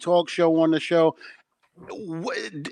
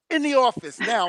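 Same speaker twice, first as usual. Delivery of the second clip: higher-pitched mock order from a fired-up coworker; imitated urgent summons; 8 semitones higher than usual. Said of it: "she started venting".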